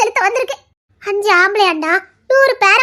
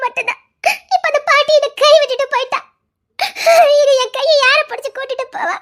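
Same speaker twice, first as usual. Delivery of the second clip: crying; 4 semitones higher than usual. Acted. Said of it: "சரி, அழுவாத".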